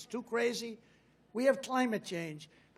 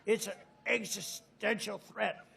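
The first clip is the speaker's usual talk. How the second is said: imitating Biden; 3 dB quieter than usual. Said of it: "He loves the word existential".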